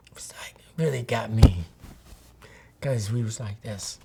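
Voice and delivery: hushed whisper, barely voiced. Real, not acted. Remembering the day his son died, whispered. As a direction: let it fall to a whisper as the memory hits. Moved, recalling the grief.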